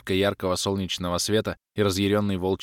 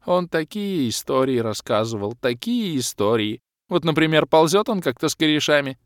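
high, louder wistful elf voice; grieving elf rambling; 7 semitones higher, 4 dB louder than usual. Acted. Elf mourning his ghost mid-battle, wistful. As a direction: drift into memories.

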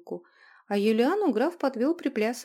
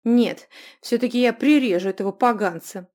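angry threat; 9 dB louder than usual. Acted. Runika threatens the rascal.

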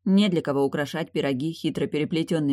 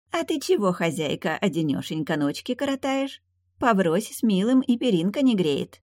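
sugary sweet; 5 semitones higher than usual. Acted. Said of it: "сладенько вопросил".

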